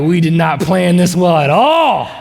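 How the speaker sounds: slow, laughing through the words; laughing reply. Retold or imitated. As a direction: chuckle it out slowly. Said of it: "I was like".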